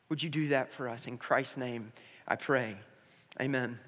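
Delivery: earnest prayer. Acted. Pastor praying over church before sermon, reverent and hushed at the end. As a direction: pray over the congregation, hushing toward the close.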